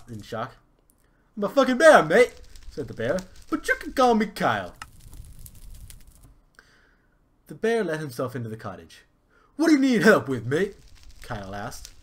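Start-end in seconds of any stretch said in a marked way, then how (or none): 1.4-10.8 very high, loud squeal; squeaky cartoon bear. Kyle the bear greets the prince, very high and loud. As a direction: play the bear as a shrill mate.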